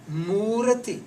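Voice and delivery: Murati with long oo and clear final i; final I sounded. Shown as a demonstration. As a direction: hold the oo of Murati and finish on "ti". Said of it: "There is a I sound is there".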